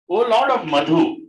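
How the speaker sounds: loud, measured recitation; teacher reading a prayer to the class, measured and devout; scripture reading. Acted. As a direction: recite the verse with devotion. Reads the prayer aloud.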